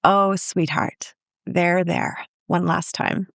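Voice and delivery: slow, tender soothing, drawn out at first; imitated parental comfort. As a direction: comfort a grown child as a parent would. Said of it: "What a gift to the dying parent to be able to say".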